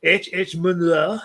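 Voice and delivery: reads the poem aloud in a light put-on accent; lightly accented poetry recital to a podcast co-host; poem reading accent. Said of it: "I seem to read better when I do this accent".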